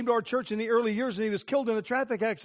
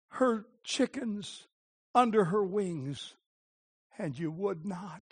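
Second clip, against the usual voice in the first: tender lament; slower than usual. Acted. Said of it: "And then he says".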